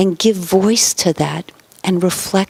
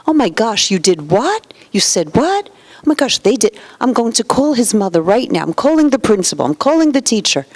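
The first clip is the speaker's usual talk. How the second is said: higher-pitched, rushed parental outburst; alarmed overreaction; 3 semitones higher than usual. Acted. Parent interrupting a child's story to threaten calls, alarmed overreaction. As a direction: cut in aghast, pitch jumping up.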